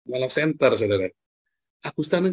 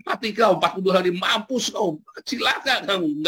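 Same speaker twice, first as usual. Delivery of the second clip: a raised, cursing prophet's rant; mock angry preaching; 5 semitones higher than usual. Preacher imitates Yunus cursing Nineveh, mock angry rant. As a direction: spit out the curse like a furious prophet. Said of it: "Dia marah-marah sambil khotbah".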